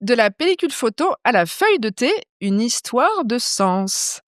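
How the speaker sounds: présente l'invitée comme une voix off; présentation de podcast. Acted. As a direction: lecture posée d'une intro de portrait, un peu plus lente. Podcast intro read. (lecture d'introduction posée)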